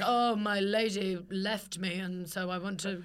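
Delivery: slow, mock-sorry gent pleading for money; lightly voiced jilted gentleman, drawn out; mock forlorn gentleman. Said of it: "Be like".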